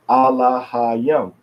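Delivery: slow "Alahayim", syllable by syllable; syllable demonstration. Shown as a demonstration. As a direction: stretch out each part of "Alahayim". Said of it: "next to the last syllable is stressed".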